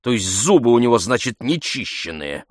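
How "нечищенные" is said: ordinary delivery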